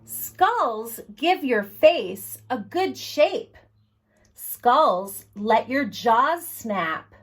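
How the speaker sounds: slow, gentle read-aloud pace; reading to children. Acted. Librarian reading Skulls to children, slow read-aloud. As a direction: read it slowly to little ones at story time. Reads the picture book aloud.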